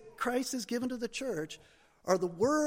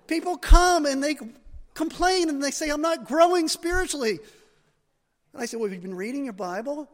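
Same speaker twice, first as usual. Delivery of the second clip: loud, high pulpit preaching; impassioned preaching; 3 semitones higher, 8 dB louder than usual. Acted. Pastor pleading with the congregation, preaching loud and high. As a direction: preach it hard, pressing each question.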